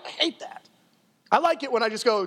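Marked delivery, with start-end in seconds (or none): 0.0-0.7 whispered aside. Real, not acted. Preacher aside on temptation.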